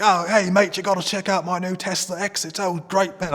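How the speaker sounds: a lightly done British Australian mash-up; mixed British Australian accent. Retold or imitated. Friend showing off his new Tesla, mock British Australian accent. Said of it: "I'm, like, mixing Australian and British now".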